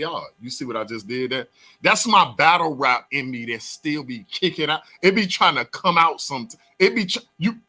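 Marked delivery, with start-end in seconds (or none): 1.8-7.6 hyped up. Real, not acted. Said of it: "let me calm down".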